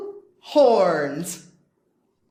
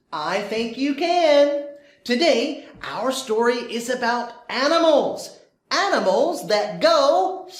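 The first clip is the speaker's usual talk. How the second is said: bright, bouncy storytime voice; cheerful teacher reading to kids; overbright kids party host; 2 semitones higher than usual. Acted.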